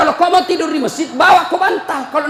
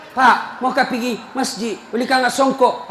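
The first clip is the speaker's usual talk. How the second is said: put-on child asking father. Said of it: "Anaknya mau pergi".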